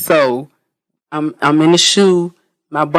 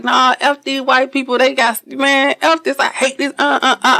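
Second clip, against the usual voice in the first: higher, half-laughing mock rant; 8 semitones higher than usual. Speaker retelling how she raged at her bunkie. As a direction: replay her own outburst, laughing. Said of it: "And I'm like".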